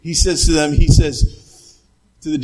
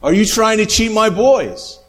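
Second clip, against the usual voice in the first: raised, angry challenge to the ref; mad coach; 4 semitones higher than usual. Retold or imitated. Coach confronting a cheating referee, mock angry. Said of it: "And he's mad".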